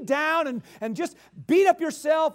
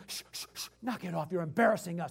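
hushed, low scolding; shushing crowd; 6 semitones lower, 7 dB quieter, faster than usual. Retold or imitated. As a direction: hush him up, embarrassed. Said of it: "Everybody goes".

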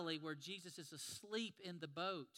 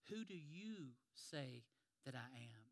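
slow, soft and searching; earnest question; 5 semitones lower, 8 dB quieter, slower than usual. Acted. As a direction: ask it gently, letting it land. Jesus asks the key question.

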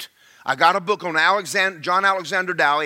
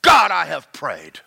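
louder, slow, earnest plea; pleading with God, pressing; retold prayer; 6 dB louder, slower than usual. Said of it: "And he said".

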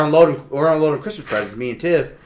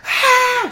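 mock scream. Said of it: "like, agonizing screaming".

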